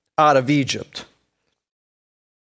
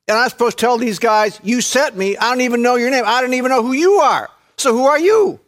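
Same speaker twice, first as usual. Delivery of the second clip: high, exasperated objection building higher; incredulous protest; 9 semitones higher, 3 dB louder than usual. Acted. Preacher playing Moses questioning God, incredulous. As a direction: protest in rising disbelief to a final louder question. Acting Moses challenging God's command.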